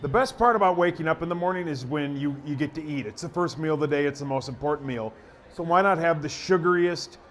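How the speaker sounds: conversational radio spot read; improvised ad read. Shown as a demonstration. Radio guy improvising a cereal spot on request, conversational ad read. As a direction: pitch it like chatting to a listener, slowing on the brand name. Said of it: "see if I can do a minute on it".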